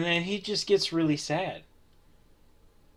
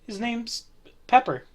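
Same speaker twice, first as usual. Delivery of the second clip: high, light female voice; woman's voice; 9 semitones higher than usual. Acted. GM playing the dog owner chatting with the player, high female voice. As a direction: pitch way up to play the lady.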